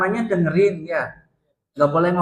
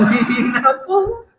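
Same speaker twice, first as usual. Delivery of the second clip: "Nina Bobo" asked much higher, drawn out; incredulous; 8 semitones higher, 3 dB louder, slower than usual. Retold or imitated. Asking the men if the sermon was a lullaby, incredulous and high. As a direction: feign disbelief at "Nina Bobo". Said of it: "Kok aku dengernya".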